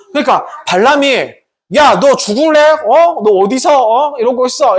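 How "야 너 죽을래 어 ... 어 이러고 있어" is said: bully the donkey into moving; threatening. Acted. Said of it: "이러면서 세 번째로 때렸어".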